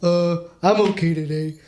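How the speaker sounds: glum cartoon starfish voice; lightly voiced mopey sidekick; Patrick. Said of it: "I could do two conversations as well".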